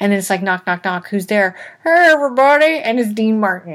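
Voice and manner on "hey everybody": put-on drunk voice, higher and louder. Retelling a movie scene's ending line in a drunk crooner's voice. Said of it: "I thought that was a singer on the podcast".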